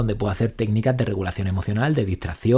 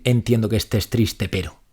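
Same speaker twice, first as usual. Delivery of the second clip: dismissive; 3 semitones lower, slower than usual. Shown as a demonstration. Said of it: "Validar no es decir".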